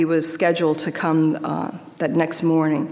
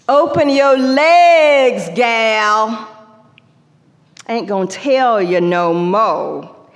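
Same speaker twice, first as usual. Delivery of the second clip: loud, high, barking auction call; slave auctioneer; 6 semitones higher, 6 dB louder than usual. Acted. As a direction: hawk her to the buyers. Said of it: "the slave auctioneer".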